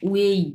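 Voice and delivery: "উয়েই" firmly as one u-ei glide; correct blended pronunciation. Shown as a demonstration. Teacher gives the pronunciation of UI, firm and clear. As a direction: blend "উয়েই" into a single syllable. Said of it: "এটার উচ্চারণ হবে হচ্ছে".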